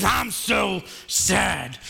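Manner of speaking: sad alligator. Acted.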